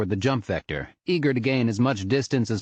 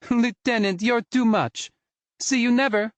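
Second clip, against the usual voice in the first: dismissive; 3 dB louder than usual. Acted. Oz dismisses him after laughing.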